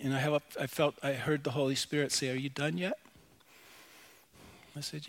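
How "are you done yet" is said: quiet divine voice. Acted. Holy Spirit's calm reply, acted.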